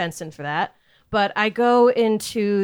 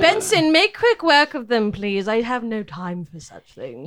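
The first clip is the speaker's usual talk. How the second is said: a touch of imperious lady of the house; lightly haughty command. Acted. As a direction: dismiss the visitors to your butler. Lady orders butler about visitors.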